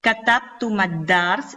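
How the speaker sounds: "Katabtu mad-dars" slowly, the MA short into the doubled D; shortened linked vowel. Shown as a demonstration. Teacher showing the alif dropped, slow short-vowel linking. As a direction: link "mad-dars" with no long A. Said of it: "como si eliminase esta alif".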